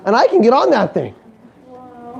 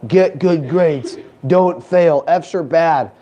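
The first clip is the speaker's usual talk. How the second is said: a lower, slow lecturing teacher nagging; mocking teacher voice; 5 semitones lower, much slower than usual. Speaker mocks teachers scolding students about grades, lecturing voice. Teachers telling kids in classroom.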